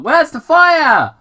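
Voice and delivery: loud mock-stern cop; calling out, lightly scolding. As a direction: call after a speeder. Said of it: "Tom called out".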